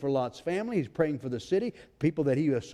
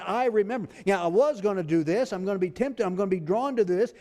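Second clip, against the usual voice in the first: higher, emphatic voice of God remembering; 4 semitones higher than usual. Acted. God speaking to the tempted believer, higher and emphatic. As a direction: proclaim it as God would.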